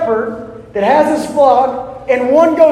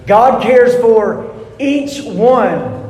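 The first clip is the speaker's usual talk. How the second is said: slow, weighted God cares for each one; stress on each one; much slower than usual. Shown as a demonstration. Preacher to congregation, slowly stressing each one. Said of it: "listen to the emphasis here".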